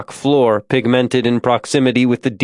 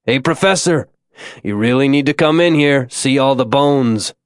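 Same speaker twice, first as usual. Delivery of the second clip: raised voice calling ahead; 2 semitones higher than usual. Acted. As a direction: call over to someone at a distance. Calling to man thirty feet ahead.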